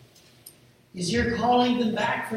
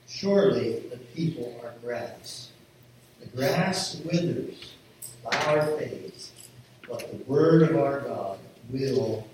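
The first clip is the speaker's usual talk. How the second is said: measured, lower Bible reading; solemn scripture reading; 5 semitones lower than usual. Acted. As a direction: read scripture solemnly, with pauses between phrases. Scripture reading slows and settles.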